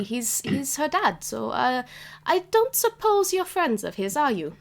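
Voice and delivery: lightly voiced proper granny, a bit haughty; old cat grandma. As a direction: tease them with her name. DM voicing Nan.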